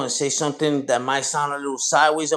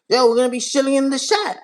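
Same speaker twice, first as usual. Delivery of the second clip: imitating Street Queen; 7 semitones higher than usual. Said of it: "that's the way she says".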